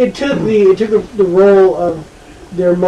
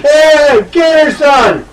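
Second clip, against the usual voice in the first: put-on loud, high, rowdy drunk uncle; 9 semitones higher, 4 dB louder, much slower than usual. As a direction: bellow it like a tipsy uncle. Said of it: "he doesn't sound like a drunk uncle".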